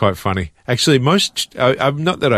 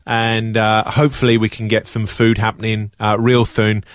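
Jamie Oliver. Retold or imitated. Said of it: "Jamie Oliver".

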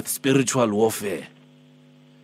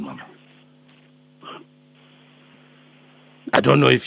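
put-on Alpheus, old man. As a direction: play a gentle old healer calling early, only a hint of age. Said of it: "I'm Alpheus, I'm Alpheus".

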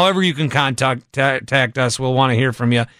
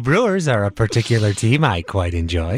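radio host impression; 5 semitones lower than usual. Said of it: "any nasally higher voice".

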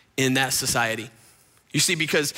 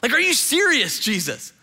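hammed-up disbelief, voice pitched up; indignant Pharisees; 8 semitones higher than usual. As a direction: Pharisees gossiping about Jesus, mock scandalised. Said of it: "they're going".

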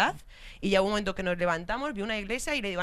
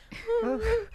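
mock sobbing; 12 semitones higher than usual. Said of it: "estaba así sollozando".

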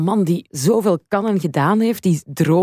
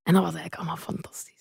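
whispering; 7 dB quieter, faster than usual. Real, not acted. Hushed aside during podcast chat.

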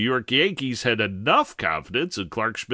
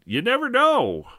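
quoting; 11 semitones higher than usual. Retold or imitated. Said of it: "Aaron Boone said".

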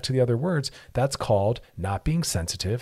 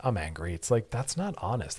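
ordinary talk, nothing marked

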